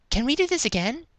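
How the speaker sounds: very high character voice; eager character. A narrator's reading. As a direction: pipe up high with the request. Character eagerly asks for more.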